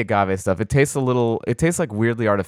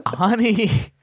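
much higher incredulous squeal; mock disbelief; 14 semitones higher, slower than usual. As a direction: scoff at the very idea. Mocking producer's question.

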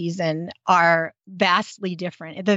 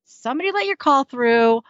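mock grumpy; 4 semitones higher than usual. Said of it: "And Margaret's like".

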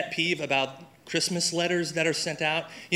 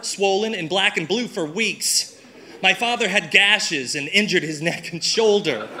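reading through laughter; 4 semitones higher than usual. Real, not acted. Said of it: "I wanna read a real Christmas letter to you".

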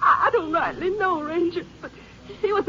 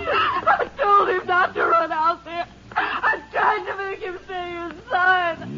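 crying out the words, breaking down; sobbing out her guilt. Acted. Witness breaks down hearing he will die, sobbing. Witness sobs about the victim.

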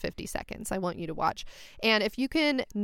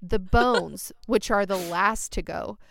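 sexy voice. Pretend. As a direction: read it like a seductive bedtime story. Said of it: "reading that, like, in a sexy voice".

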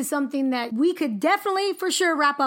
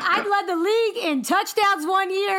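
laughing; 4 semitones higher than usual. Retold or imitated. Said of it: "James is like".

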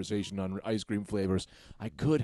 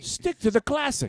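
high squeaky voice; 13 semitones higher than usual. Acted. Comic high declaration.

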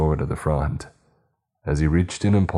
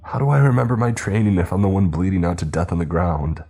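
crying out in pain; 3 semitones higher, 3 dB louder than usual. Acted. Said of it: "Merlin cried".

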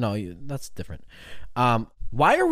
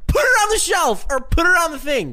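high, loud, laugh-choked telling; laughing through it; 6 dB louder than usual. Real, not acted. Confessing the hanger story to his friend while laughing hard.

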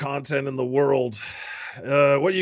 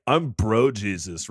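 frat bro; 5 semitones lower, slower than usual. Pretend. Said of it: "what if you were like".

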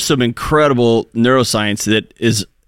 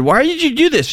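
surprised question; 14 semitones higher than usual. Retold or imitated. Husband asks about the list.

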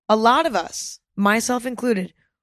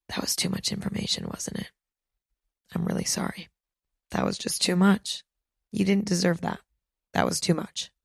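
sheepish apology; 6 dB quieter than usual. Acted. Owning an overshare, apologising.

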